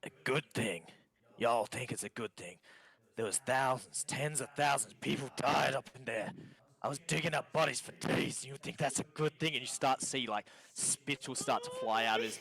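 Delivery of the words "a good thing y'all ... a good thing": rising indignation, a bit higher and louder; agitated survivor challenging the listeners; worked-up, incredulous outburst; indignant rant. Acted. Game master voices an indignant survivor.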